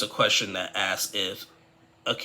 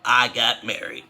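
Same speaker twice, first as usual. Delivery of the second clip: defiant announcement; 4 semitones higher, 5 dB louder than usual. Retold or imitated. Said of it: "Submit was like".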